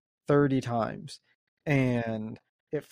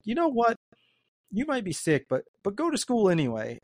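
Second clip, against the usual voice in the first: higher-pitched imitation of a dismissive parent; mock careless parent; 7 semitones higher than usual. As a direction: voice a parent waving it off. Voices parents sending sick kids.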